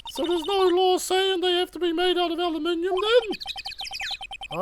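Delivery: put-on chirpy young sidekick; young girl voice. Maya's lines.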